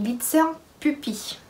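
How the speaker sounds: name said with a light German accent; a hint of a German accent on Glitzer Puppy. Shown as a demonstration. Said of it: "avec mon accent allemand".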